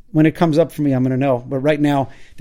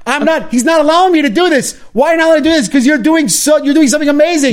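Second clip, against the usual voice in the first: high, loud, whiny put-on voice; voicing the inner saboteur; 11 semitones higher, 5 dB louder than usual. Guest acting out the evil inclination for the host, high and whiny. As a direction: squeak it out like a petulant little tempter.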